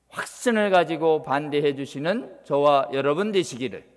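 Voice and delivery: ordinary talk, nothing marked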